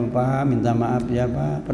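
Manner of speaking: wife kneeling to husband, asking forgiveness, slow and soft; tender apology. Retold or imitated. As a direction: beg forgiveness gently while embracing him. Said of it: "sambil sujud depan, dirangkul suaminya".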